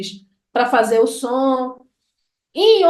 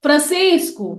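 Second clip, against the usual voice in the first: call without the Ô; slower than usual. Shown as a demonstration. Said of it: "Se eu tirar esse o".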